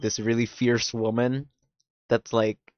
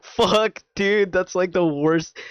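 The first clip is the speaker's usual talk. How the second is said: outraged friends; 6 semitones higher, slower than usual. Retold or imitated. Retelling her and her friend's reaction, high outrage. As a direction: cry out at how bad it is. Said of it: "me and my friend were like".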